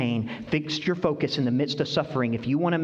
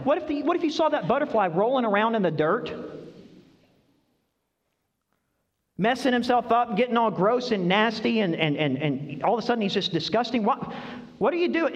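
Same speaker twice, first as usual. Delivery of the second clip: incredulous; 7 semitones higher than usual. Acted. Disgust at a butterfly in dirt.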